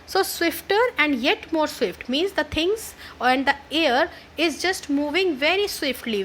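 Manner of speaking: ordinary talk, nothing marked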